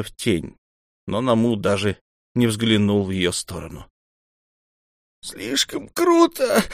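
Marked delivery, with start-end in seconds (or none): 5.2-6.6 high, very slow plaintive whine; old mentor complaining to Хатуру, high and slow. A narrator's reading. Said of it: "жалобно сказал он".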